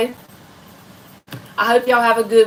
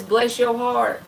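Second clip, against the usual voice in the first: a touch of Southern lady; slower than usual. Retold or imitated. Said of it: "old Southern lady ever says".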